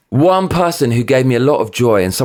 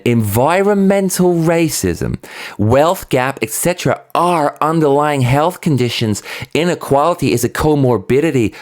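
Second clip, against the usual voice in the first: mocking repeat; 3 semitones higher than usual. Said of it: "let me say that again".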